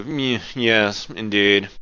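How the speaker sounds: lightly haughty, head tilted up; a hint of upper-class snob; snooty rich person. Shown as a demonstration. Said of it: "snooty rich person's voice".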